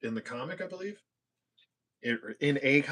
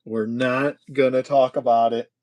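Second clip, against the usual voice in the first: louder, emphatic refusal; firm dismissal; 6 dB louder than usual. Pretend. Host hushing up a mishap, firm and loud. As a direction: shut the subject down firmly.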